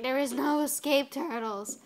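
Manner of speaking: lightly creepy villain quote; hammed-up creepy warning, only a touch of it; April. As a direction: imitate a creepy, crazed threat with mild menace. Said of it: "it's, like, really creepy".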